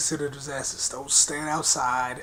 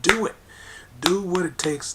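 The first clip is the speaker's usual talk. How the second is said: sharp push; 3 semitones higher than usual. Real, not acted. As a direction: bark the command. Urging listeners to intimidate.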